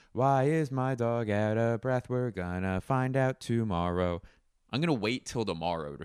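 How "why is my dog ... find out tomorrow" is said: news teaser voice. Pretend.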